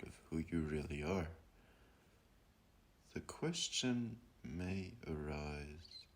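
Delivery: contemplative guide, long pauses between phrases; slowing to let each question sink in; guided meditation. Acted. Guiding listeners to ask who they are, meditative voice.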